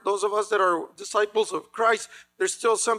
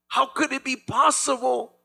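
anguished dismay; 5 semitones higher than usual. Retold or imitated. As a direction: cry out in shocked disbelief. Israel's dismay after defeat.

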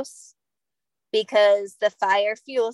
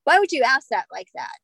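incredulous retelling; 2 semitones higher than usual. Retold or imitated. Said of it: "we're like".

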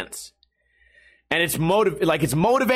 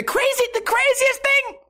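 squeaky falsetto, much higher; sudden cartoon squeak. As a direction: pop up into a silly squeak. Squeaky aside mid-rant.

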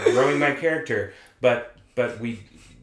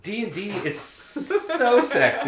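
slow, higher seductive purr; sexy voice; 10 semitones higher, 4 dB louder, slower than usual. Pretend. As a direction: drawl it out like a seductive tease. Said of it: "Make it sexy".

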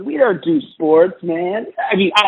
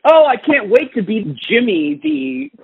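mock excited actor; 8 semitones higher than usual. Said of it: "It's like".

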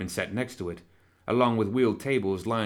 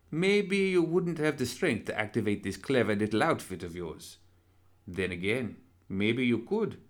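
suave villain doctor; 2 semitones higher than usual. Acted. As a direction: purr it like a polite fiend. Villain doctor speaks to Anna.

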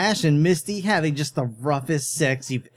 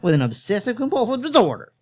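rambling. Acted. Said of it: "Ernest rambled on".

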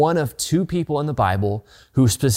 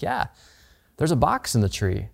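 understated agreement; 4 dB quieter than usual. Retold or imitated. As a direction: play it down, as a quiet aside between parents. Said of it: "we look at each other and like".

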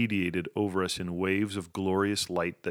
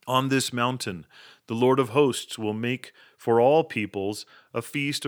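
higher, louder royal proclamation; thundering royal tone; 4 semitones higher, 7 dB louder than usual. A narrator's reading. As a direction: announce it like a herald to a kingdom. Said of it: "I continued in my thundering royal tone".

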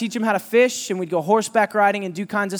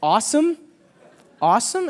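incredulous; 3 semitones higher than usual. Retold or imitated. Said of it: "I'm like".

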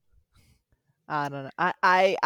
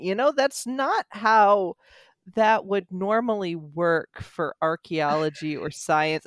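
pitched-up, drawn-out nitpicking; lecturing sister, stretched and higher; know-it-all sister; 4 semitones higher, 4 dB louder than usual. Retold or imitated. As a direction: imitate a sister pedantically correcting, slowly. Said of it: "my sister kept going".

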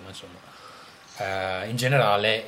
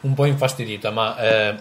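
mouth full; 4 dB louder than usual. Real, not acted. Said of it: "sto mangiando il lime".

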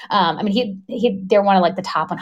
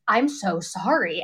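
sincere apology; 5 dB quieter, slower than usual. Retold or imitated. Retold PA apologises to patient.

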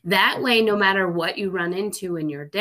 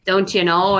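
put-on a touch of Minnesota accent, louder; Minnesota saying; 5 dB louder than usual. Quoting a Minnesota joke in a light Minnesota accent. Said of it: "it made some jokes about being Minnesotan".

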